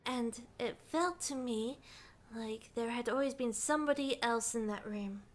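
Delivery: quiet storytelling voice; story narration. A narrator's reading. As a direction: read it as a subdued recollection. Reads game narration aloud between chat.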